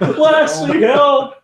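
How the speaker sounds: high, loud call to Lassie; hammed-up distress call; mock cry for help.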